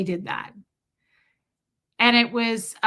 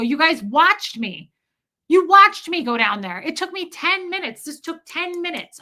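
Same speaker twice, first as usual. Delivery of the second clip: exasperated pet talk; 7 semitones higher, 5 dB louder than usual. Retold or imitated. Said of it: "I go".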